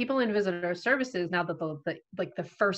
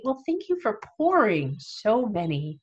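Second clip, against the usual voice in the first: sarcastic thanks; 3 semitones higher, 3 dB louder, slower than usual. Retold or imitated. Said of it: "come off as sarcastic".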